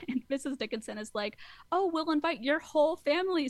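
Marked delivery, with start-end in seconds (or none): 1.7-3.5 higher, louder imitation of a gushing mother; mock gushing. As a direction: gush over the plans in a put-on voice. Mrs Dickinson gushing over wedding plans.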